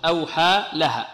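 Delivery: أوحى لها split into two words; slow, with a small gap between أوحى and لها; separated words. Shown as a demonstration. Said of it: "مفصولة".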